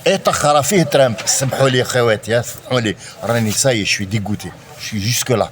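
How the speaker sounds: put-on strong Arabic accent in French; French with a heavy Arabic accent. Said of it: "avec un accent arabe bien prononcé".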